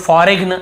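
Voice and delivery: "फॉरेन" with a hard g sounded before the n; common mispronunciation. Shown as a demonstration. Teacher shows how many people misread it, g pronounced. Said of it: "ऐसे पढ़ते हैं".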